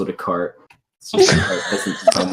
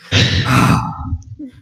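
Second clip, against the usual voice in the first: sigh of relief; 4 semitones higher, 5 dB louder than usual. Acted. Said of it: "a sigh of relief".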